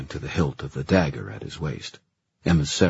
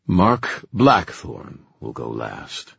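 slow commanding; 5 semitones lower, 3 dB louder, much slower than usual. Acted. Puka decrees slowly.

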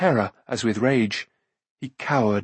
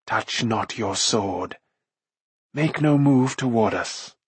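hoarse whisper; slower than usual. A narrator's reading. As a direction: threaten in a rasping hush. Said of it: "she said in a hoarse whisper".

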